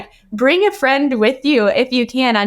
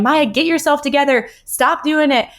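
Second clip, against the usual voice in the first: imitated scolding, pitched higher; mock yelling fiance; 5 semitones higher than usual. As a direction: play the impatient fiance she never got, higher pitched. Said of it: "he's not yelling at me".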